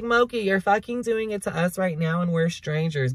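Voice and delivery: high-pitched imitation of the audience butting in; imitating protesting viewers. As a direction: voice the viewers calling you out. Voices viewers challenging her.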